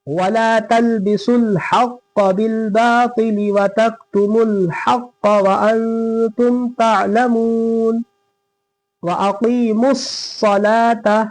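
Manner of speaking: slow, drawn-out melodic recitation; Quran recitation. Shown as a demonstration. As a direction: chant each word slowly and evenly.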